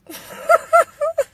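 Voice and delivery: a loud burst of high laughter. Real, not acted. Laughing at her own funny looks, a high loud laugh.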